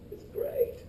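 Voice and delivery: high, squealing mock thrill; mock excitement. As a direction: gush like a thrilled student. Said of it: "You're like".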